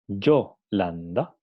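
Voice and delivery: «Yolanda» despacio, marcando la N dental; pronunciación lenta. Shown as a demonstration. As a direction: alarga «Yolanda» sílaba a sílaba. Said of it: "Aquí tenemos una N dental". («Yolanda» lento, con la N dental bien marcada)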